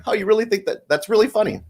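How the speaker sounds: high-pitched mock offence; indignant dad. Dad answers his teasing daughter, mock indignant.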